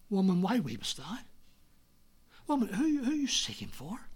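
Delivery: softly acted, tender questions; hushed questions to someone weeping; gentle questioning. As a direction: ask gently, lifting at the end. Acts out the Lord questioning Mary.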